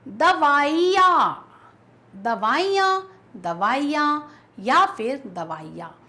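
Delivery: each दवाइयाँ drawn out slowly, syllable by syllable; slow careful reading. Shown as a demonstration. Teacher slowly reading the answer choices. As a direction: read the options slowly and clearly. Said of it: "पहचानना है कि कौन सा शब्द सही".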